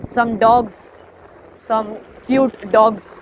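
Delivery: cooing over dogs. Retold or imitated. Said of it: "the one in second video".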